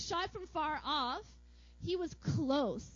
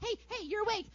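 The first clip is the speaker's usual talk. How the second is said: high, eager greeting; giddy and high-pitched; so excited; 8 semitones higher, much faster than usual. Acted. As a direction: play an excited God greeting newly woken Adam. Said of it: "he was just so excited".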